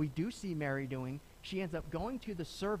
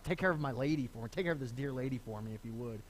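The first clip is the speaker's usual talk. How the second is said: soft, fading, tender request; a son's soft dying request for his mother; tender plea; 6 semitones lower, 3 dB quieter, faster than usual. Retold or imitated. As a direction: ask it gently, dying away. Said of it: "As he's hanging on the cross".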